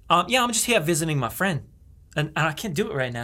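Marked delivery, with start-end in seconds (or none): 0.4-1.6 lightly put-on Aussie; Australian accent. Explaining the visit to someone in the bar, mild Australian accent. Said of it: "I'm from Australia".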